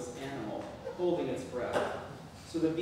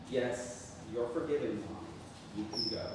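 more polite; 2 semitones lower than usual. Retold or imitated. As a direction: say it kindly, without sarcasm. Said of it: "I said in a more polite tone".

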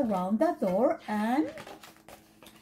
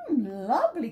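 delighted; 3 dB louder, faster than usual. Acted. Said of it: "cried the girls".

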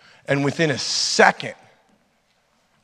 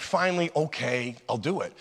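resigned giving in; 8 dB quieter than usual. Retold or imitated. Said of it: "and I'm like".

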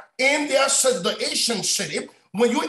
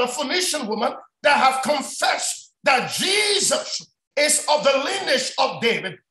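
emphatic, raised preaching voice; 3 semitones higher than usual. Real, not acted. Preacher explaining the woman's confession to the congregation, emphatic preaching. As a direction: press each point home like a preacher.

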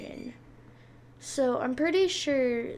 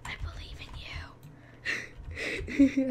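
whispering; 3 semitones lower than usual. Pretend. Whispered mock faith.

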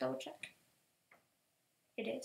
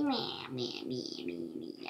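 mock animal bleat; 12 semitones lower, 7 dB quieter, slower than usual. Imitating the stubborn pig.

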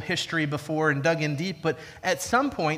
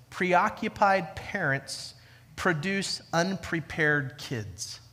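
slow emphatic quote; much slower than usual. Shown as a demonstration. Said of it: "Can, can I say it again?".

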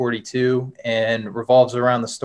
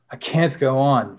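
choked; slower than usual. Acted. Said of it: "Victor choked".

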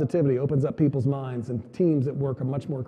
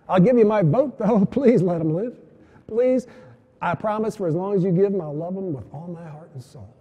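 re-enacted plea, pitched higher; pleading; 4 semitones higher, 5 dB louder than usual. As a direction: plead with God for your child's life. Pleading with God for son.

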